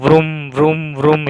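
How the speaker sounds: mild vroom noise of a spinning fan; imitated fan whirr. Teacher showing pupils how the fan sounded, lightly imitated whirr. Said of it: "એવો અવાજ આવ્યો".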